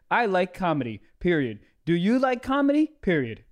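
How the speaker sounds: stilted mock French-accent reading; robotic foreign accent. Comic reading a French woman's message, robot-like foreign accent. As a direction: read a foreign text stiffly, dropping on each "period". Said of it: "That just sounds like a robot".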